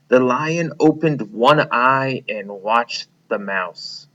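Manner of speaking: put-on expressive read-aloud for children; storybook narration for young listeners; story reading. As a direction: read it like a picture book to kids. Teacher reads fable to class.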